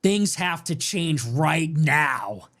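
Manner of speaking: slow, heavy, deliberate declaration; a hint of a roaring candidate; mild mock roar. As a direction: lean on each word like a rally speaker. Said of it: "he roared".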